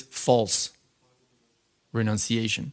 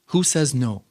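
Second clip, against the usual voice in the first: dismissive question, barely raised; mild retort; slower than usual. Retold or imitated. Quoting the guru brushing off doubters, a mild retort. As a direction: shrug it off lightly. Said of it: "but here he was angry".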